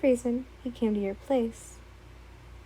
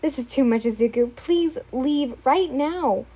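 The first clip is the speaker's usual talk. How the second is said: firm order; 4 dB louder than usual. Acted. Orders intruder to leave.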